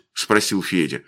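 ordinary delivery

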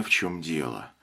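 ordinary delivery

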